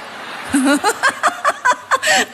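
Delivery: shrill imitated laugh of the woman; high cackling laugh. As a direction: burst into a high giggle. Woman laughing at her joke.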